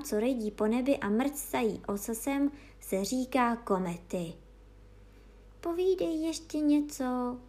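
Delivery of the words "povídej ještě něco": pleading. Acted. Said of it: "prosili psí rusalky do třetice".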